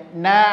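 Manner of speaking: "Na" with a thin, spread a; na tipis. Shown as a demonstration. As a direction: smile while saying "Na". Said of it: "Senyum aja". ("Na" tipis sambil senyum)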